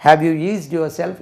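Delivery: slow, clear model question; slow teaching model. Shown as a demonstration. Teacher modelling slowly for students to repeat. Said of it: "இப்படி சொன்னா போறோம்".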